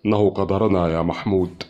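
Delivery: subdued, defeated resignation; dejected mutter. A narrator's reading. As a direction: accept fate with discouragement. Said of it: "غمغم رمزي في إحباط". (غمغمة محبطة)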